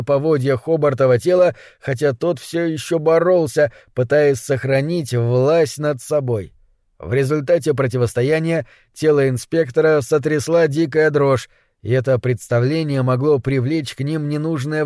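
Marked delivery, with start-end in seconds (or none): none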